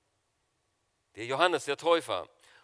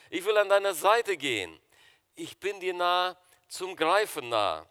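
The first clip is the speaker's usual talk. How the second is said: poem recitation. Acted. Reads Gisela Baltes poem.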